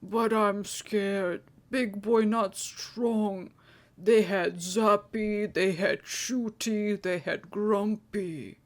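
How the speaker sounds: put-on slow, childlike giant voice, a touch afraid; a big brute admitting he is frightened; scared simple giant. Hill giant telling Kova he is too scared to go, slow and childlike.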